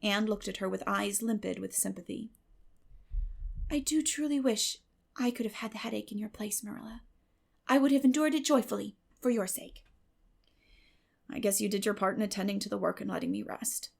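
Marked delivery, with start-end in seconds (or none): 3.7-9.8 sympathetic Anne. Acted. 11.3-13.9 dry Marilla. Acted. Marilla after her headache, tired and dry.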